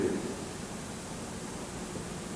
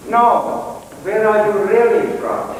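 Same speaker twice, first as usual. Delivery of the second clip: insistent driver; 7 semitones higher, 5 dB louder, slower than usual. Retold or imitated. Driver presses him.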